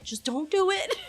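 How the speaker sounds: half laughing, half pleading; giggling desperate plea; laughing panic. Retold or imitated. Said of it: "I'm freaking out".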